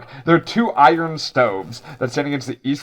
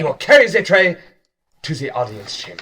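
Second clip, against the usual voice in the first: commanding chef; 3 semitones higher, faster than usual. Acted. Head chef kobold spelling out the destination, lightly stern.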